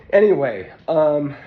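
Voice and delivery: breathless, catching air between words; out of breath. Real, not acted. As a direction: talk while short of breath. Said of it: "I'm out of breath".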